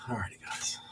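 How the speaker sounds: sighed whisper. Real, not acted. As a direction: breathe it out with a sigh.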